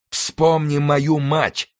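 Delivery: high, very drawn-out vengeful cry; roared cry. A narrator's reading. Mordaunt avenges his mother, high drawn-out roar. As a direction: stretch each word into a roar. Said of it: "проревел Мордаунд".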